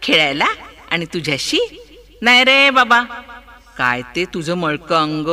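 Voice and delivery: put-on proud parrot turning its beak up at a dirty boy; lightly played haughty bird; snooty parrot. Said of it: "मान वाकडी करत पोपट म्हणाला".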